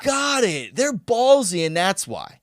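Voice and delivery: high mock "aha", slowing at end; mock realization. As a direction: play it as a big realization. Mock realization about Aussies.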